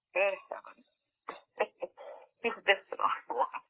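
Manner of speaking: breathy whispered aside, soft and slow with a little laugh; slow hushed laugh-whisper. Retold or imitated. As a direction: lean in and whisper it, half amazed. Awed aside about the being.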